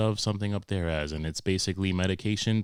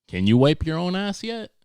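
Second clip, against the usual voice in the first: sarcastic; 11 semitones higher, 6 dB louder than usual. Retold or imitated. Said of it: "dad voiced".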